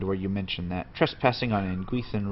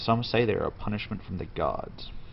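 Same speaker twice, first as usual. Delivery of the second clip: ordinary delivery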